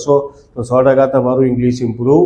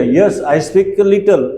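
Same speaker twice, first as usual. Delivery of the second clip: very slow, every word laid out for the class; slow model sentence; 3 semitones higher, much slower than usual. Shown as a demonstration. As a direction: say it slowly like a teacher modelling English. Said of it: "તો શું કે".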